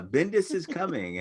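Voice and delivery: imitated teaser, pitched well up; promo slogan. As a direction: intone it like a comic-book teaser. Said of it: "Remember the promo".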